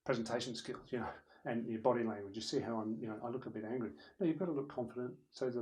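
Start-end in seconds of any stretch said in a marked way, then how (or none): 0.1-3.9 mildly grumpy presenter; a touch of sullen reluctance. Shown as a demonstration. Presenter who looks a bit angry, mildly grumpy. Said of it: "grumpy about it".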